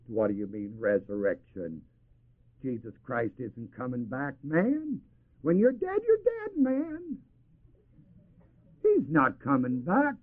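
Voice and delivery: a hint of a sneering doubter brushing it off; preacher half-mimics a scoffer mocking the resurrection; mocking unbeliever. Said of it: "That's the mockingbirds".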